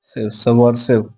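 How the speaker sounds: "Subversive" stretched out syllable by syllable; very slow. Shown as a demonstration. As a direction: draw out "Subversive" very slowly for dictation. ("Subversive" को बहुत धीरे खींचकर बोलें)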